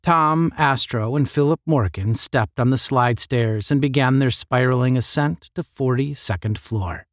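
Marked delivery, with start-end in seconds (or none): none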